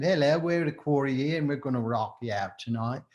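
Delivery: lightly put-on English accent; a hint of English stage patter. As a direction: rock frontman greeting the crowd in a mild English accent. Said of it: "started to talk in an English accent".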